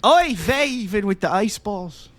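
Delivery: put-on light Yiddish accent, old man; a hint of a Yiddish-accented old man. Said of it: "do that a little too well there".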